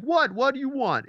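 high, snippy imitation of an annoyed driver; imitating a hostile reply; mock rude driver. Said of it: "they'll be like".

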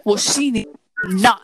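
upset. Real, not acted. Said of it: "Chill, Saquon".

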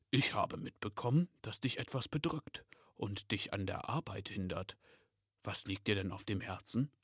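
understated, grave Santa voice; serious. Acted. Santa asking the elf what troubles him, mildly serious. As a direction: speak with mild, measured seriousness. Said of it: "mit ernster Stimme".

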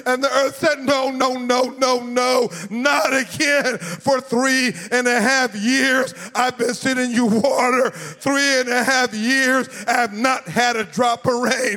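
rising, sung preacher cadence; full-force preaching. Acted. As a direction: preach it, let the words ring out. Preacher builds to climax.

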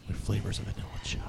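whispered, mock-seductive sign-off; sexy whisper. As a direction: drop to a sultry whisper to finish the beer pitch. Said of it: "read it in your sexy voice".

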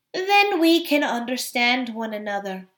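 lightly purred, smooth cat voice; purring cat. Acted. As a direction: purr it like a conspiring cat. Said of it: "purred the cat".

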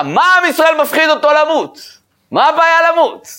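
high-pitched crying out of a question; צעקה. Acted. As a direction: cry it out in acted protest, voice way up. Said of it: "הוא בא וצועק". (זעקת שאלה בקול גבוה)

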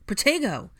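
high, loud urgent incantation; shouted spell. A narrator's reading. Mister Weasley shields Harry just in time, shouting. Spell cast in sudden fight.

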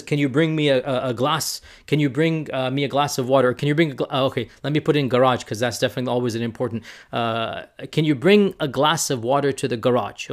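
plain American pronunciation of water and garage; American English, water with a clear r; American accent. Shown as a demonstration. Demonstrating how an American asks for a glass of water, American accent. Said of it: "what if an American says".

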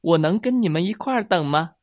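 a frog eagerly asking to join in; 笑着问. A narrator's reading. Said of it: "青蛙笑着问". (笑着高声问)

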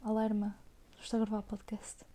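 hushed aside to someone nearby; whispering. Real, not acted. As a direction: whisper it so the mic won't catch it. Warning sister she's recording.

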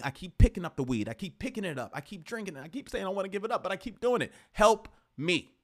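imitating someone asking for help; pleading for help. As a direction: beg a friend for help. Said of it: "Let people know you need some help".

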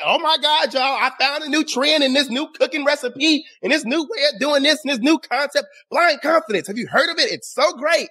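breathless-fan gushing, played as mockery; mock extreme excitement. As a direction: imitate an overexcited trend-follower. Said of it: "acting extremely excited".

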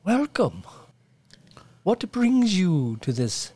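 high, eager peasant greeting; peasant villager. Acted. GM greets players as humble peasant, high and eager. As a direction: welcome the lords like a fawning villager.

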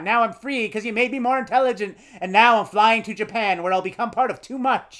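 mock robot villain farewell with a cackle. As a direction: ham up the evil robot gloat. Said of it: "He just goes".

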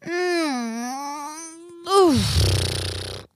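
drawn-out waking hum, then a puff; sleepy stretch and exhale; waking groan. Acted. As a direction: groan awake and let out a breath. Nemrod wakes up in bed.

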